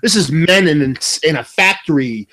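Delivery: lightly voiced macho ad slogan, drawn out; hint of hard-working-man ad read; tough-guy beer ad. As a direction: parody a tough beer commercial. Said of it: "that's kinda where that ad went".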